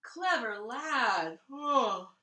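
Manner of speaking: slow, yawning praise; sleepy Tsar yawning his praise. Acted. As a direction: stretch it out through a yawn. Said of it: "yawned the Tsar".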